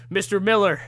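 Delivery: mock stern police warning; officer scolding the dancer; lightly voiced officer. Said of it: "and he says".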